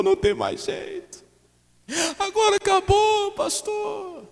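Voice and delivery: hammed-up despairing wife over the signed divorce; imitating crying woman. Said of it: "tá essa irmã chorando". (irmã chorando ao pastor pelo divórcio, voz aguda e lamentosa)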